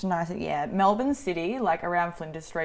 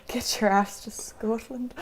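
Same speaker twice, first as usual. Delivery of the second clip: slow attempt at a Scottish accent; bad Scottish accent; 3 semitones higher, slower than usual. Reading out an invitation to Scotland, badly faked Scottish accent. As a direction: have a slow, clumsy go at Scottish. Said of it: "I cannot do a Scottish accent".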